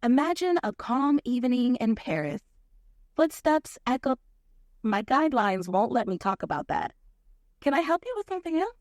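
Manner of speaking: put-on toned-down French accent. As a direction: tell it with a smooth French accent. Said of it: "switch to a French accent".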